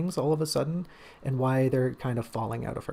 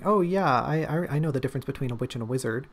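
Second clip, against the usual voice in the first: excited blurting; faster than usual. Shown as a demonstration. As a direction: gush it out all at once, thrilled to know. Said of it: "she's not just remembering".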